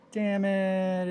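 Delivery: loud, high angry outburst; frustrated curse. Real, not acted. Builder cursing as the pin falls out. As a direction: spit it out in frustration.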